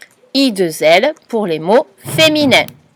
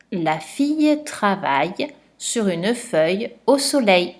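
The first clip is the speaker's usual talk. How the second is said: 1 dictée lue; 5 dB quieter than usual. Shown as a demonstration. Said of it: "je vais te dire la phrase".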